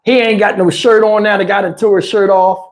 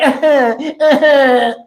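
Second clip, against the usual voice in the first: mock effeminate giggle; 4 semitones higher than usual. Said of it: "he kept doing his hands like this".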